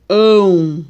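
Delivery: "ão" voiced loud and open, mouth wide; stretched open nasal "ão"; open nasal demo. Shown as a demonstration. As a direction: show the open nasal sound in "ão". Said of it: "que é o som nasal mais aberto".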